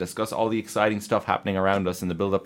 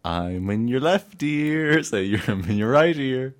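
whisper in left ear; 3 semitones higher, 4 dB louder, slower than usual. Shown as a demonstration. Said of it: "Say something".

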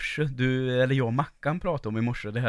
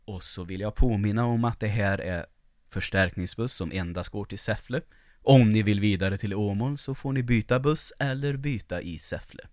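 droning driver on the microphone, sinking at the end; bus driver announcement; 2 semitones lower, 3 dB quieter than usual. Acted. Host mimics chatty driver to commuters, announcement voice. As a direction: imitate a bus driver who fancies himself a pilot. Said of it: "den här busschauffören som alltid pratar".

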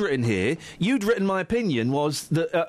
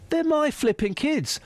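stroppy parent rant; 6 semitones higher than usual. Pretend. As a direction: play the stubborn parent.

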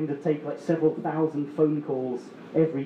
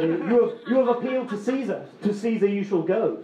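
quoting Bible judge; 3 semitones higher than usual. Retold or imitated.

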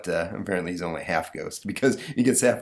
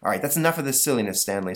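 stern teacher; 5 semitones higher, faster than usual. Acted. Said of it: "says the teacher".

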